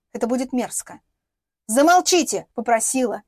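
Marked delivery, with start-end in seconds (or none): 1.7-2.5 demanding. Acted. Inna demands silence from the room, loud command. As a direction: order them to shut up, not ask. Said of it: "Нет, потребовала она".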